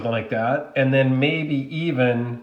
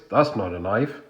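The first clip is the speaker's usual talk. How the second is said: put-on Dundee accent; 4 semitones lower than usual. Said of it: "in my best Dundee voice".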